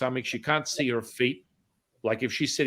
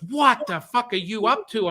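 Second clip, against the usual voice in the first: high-pitched incredulous question; imitating a stunned woman, pitched up; shocked demand; 9 semitones higher, 4 dB louder than usual. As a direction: demand an explanation in mock shock. Acting her shocked demand.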